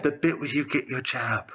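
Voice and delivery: even, composed voice of the nation; voice of Britain. Acted. Britain prompting a sleeper about the jab, composed. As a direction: echo it back evenly as Britain.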